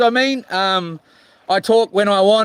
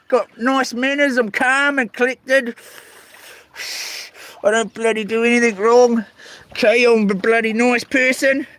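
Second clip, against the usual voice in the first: mock defensive; 2 semitones higher than usual. Insists he is calm.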